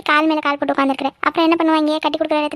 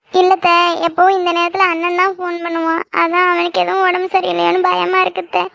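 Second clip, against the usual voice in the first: tearful, worried whine; frightened crying; 2 semitones higher than usual. Acted. Girl fearing her brother is unwell, frightened and tearful. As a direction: voice the fear through tears. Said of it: "நீ ஏன் பயந்துக்கிட்டு ஏன் அழுகுற".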